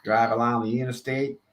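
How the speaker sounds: playful mock Texan accent; put-on Southern accent. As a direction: try an American accent that drifts Southern. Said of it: "That sounds more like a Southern accent".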